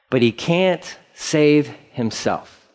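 slow, understated scoff. Acted. Preacher voicing priests jeering at the cross, mildly scoffing. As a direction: scoff with drawn-out words. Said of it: "they scoffed".

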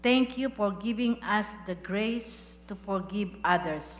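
earnest spoken prayer to God. Acted. Pastor leading the church in closing prayer, devout. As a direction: pray it over the congregation, steady and devout.

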